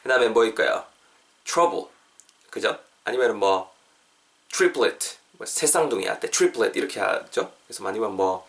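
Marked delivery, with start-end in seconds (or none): 1.4-1.9 "trouble" said like "chrouble"; tr as chu. Shown as a demonstration. Teacher giving another example, "trouble" starting like Korean "추". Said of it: "약간 좀 우리말의 추 정도로 발음해주세요". 4.5-5.2 "triplet" said like "chriplet"; tr as chu. Shown as a demonstration. Teacher giving another example, "triplet" starting like Korean "추". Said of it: "약간 좀 우리말의 추 정도로 발음해주세요".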